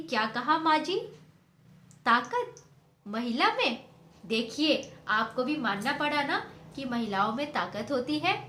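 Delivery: loud, pouncing, triumphant; triumphant gotcha. Acted. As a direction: seize on her words in triumph. Neha catches mother-in-law's admission. (जीत की खुशी में ऊँची आवाज़)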